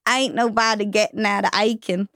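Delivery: put-on half-joking Southern accent. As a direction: drop into a hint of a Southern accent. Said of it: "your Southern accent should come in".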